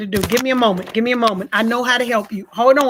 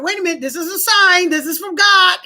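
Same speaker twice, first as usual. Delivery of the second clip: excited realization; 3 semitones higher, 4 dB louder than usual. Retold or imitated. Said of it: "And I was like".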